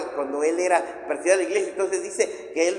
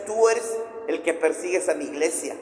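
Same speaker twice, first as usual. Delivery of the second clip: voice of Jesus. Acted. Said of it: "yo pienso que le habrá dicho".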